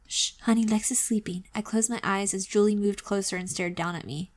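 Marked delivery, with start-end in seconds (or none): 0.1-1.4 put-on soft hush to a child. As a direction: hush her so Lex won't wake. Hushing in story.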